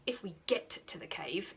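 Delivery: hushed, a touch nervous; nervous whisper. Acted. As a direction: whisper it looking up at the cliff. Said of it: "said Hiccup nervously".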